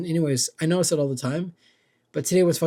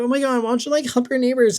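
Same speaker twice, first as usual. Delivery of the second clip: high, louder mocking voice of scolding people; mock whiny critic; 8 semitones higher, 4 dB louder than usual. Vlogger mocking imagined scolds, high and whiny. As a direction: sneer at the preachy neighbors in a high mock voice.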